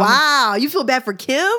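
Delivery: surprised. Real, not acted. Surprised reaction.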